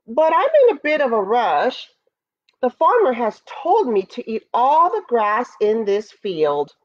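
a touch of a flustered, apologetic bull; excuse-making bull. Acted. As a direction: make polite excuses as a nervous bull.

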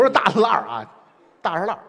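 Beijing accent. Shown as a demonstration. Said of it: "这北京南七环的口音".

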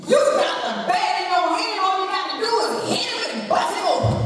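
high-pitched imitation of a father yelling; imitated excited yell from a distance; retold yell. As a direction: holler urgent instructions like Daddy, high and quick. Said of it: "Daddy yelled".

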